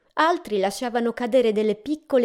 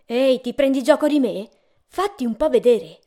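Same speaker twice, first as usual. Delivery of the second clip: mildly irritated, a little louder demand; starting to lose patience, not yet angry; getting irritated; 4 semitones higher, 7 dB louder than usual. A narrator's reading. Traveller demands the teasing voice appear, getting irritated. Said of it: "Il viaggiatore cominciava ad innervosirsi".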